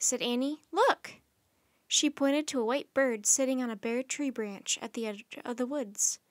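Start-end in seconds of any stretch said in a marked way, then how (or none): 0.7-1.1 high, loud exclamation; urgent call. Acted. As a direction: call attention to a sudden sighting. Annie points out the bird.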